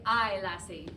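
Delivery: lilting Irish call, lightly put on; Irish accent. Shown as a demonstration. Coach modelling a phrase for the singers, playful Irish accent. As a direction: say it like a wee bit Irish. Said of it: "If you were a wee bit Irish".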